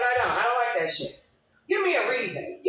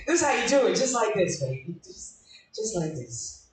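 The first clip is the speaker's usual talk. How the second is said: mock tutorial. Comic teaching her man in a breathy mock tutorial. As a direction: coo it like a steamy how-to.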